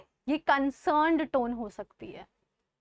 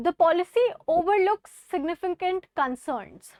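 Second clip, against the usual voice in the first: critical reading; 3 semitones higher, 4 dB louder, much slower than usual. Shown as a demonstration. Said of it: "This is a critical tone".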